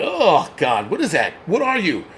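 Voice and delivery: rising mock shock, a put-on voice; fake-startled gasp of disgust. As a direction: recoil in hammed-up horror. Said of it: "they're like".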